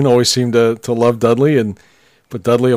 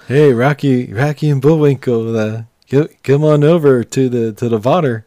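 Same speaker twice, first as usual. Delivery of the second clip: put-on playful Pennsylvania Dutch accent, v for w; mock Amish Pennsylvania Dutch twang. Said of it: "Scott's, uh, Pennsylvania Dutch accent".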